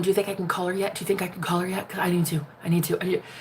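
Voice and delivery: soft, needy begging; pleading boyfriend. Retold or imitated. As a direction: beg quietly, desperate. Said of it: "Begging everything and everyone".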